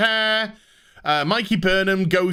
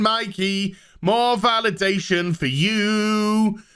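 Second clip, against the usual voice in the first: mock Saru. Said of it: "Saru's just like".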